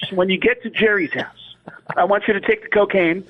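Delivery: high-pitched rambling comic voice; Sam Kinison. Acted. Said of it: "Sam Kinison had been dead".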